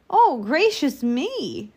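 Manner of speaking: put-on prim little girl's surprise; startled little girl. A narrator's reading. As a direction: gasp it out like a shocked child.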